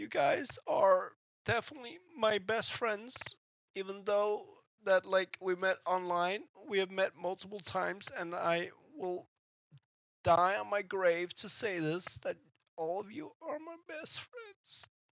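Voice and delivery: high, put-on weepy fake crying voice. Speaking to friends he met online, in his joke crying voice. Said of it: "even though I'm making this crying voice that I use as a joke often".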